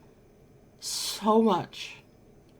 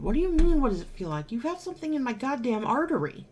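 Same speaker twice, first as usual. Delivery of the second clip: furious retort; 5 semitones higher, faster than usual. Retold or imitated. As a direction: bite back at him in outrage. Wanting to punch the doctor.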